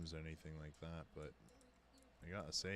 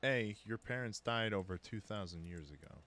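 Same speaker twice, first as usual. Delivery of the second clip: louder, forceful reality check; exasperated insistence; 2 semitones higher, 8 dB louder than usual. Acted. Adam confronting Liza about her long-dead parents, exasperated. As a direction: hammer the point home, raised voice.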